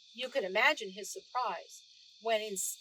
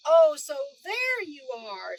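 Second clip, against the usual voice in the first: gotcha; 4 semitones higher, 11 dB louder, slower than usual. A narrator's reading. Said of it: "said the guard".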